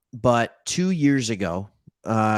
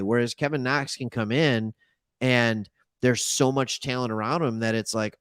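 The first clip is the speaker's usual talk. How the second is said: ordinary delivery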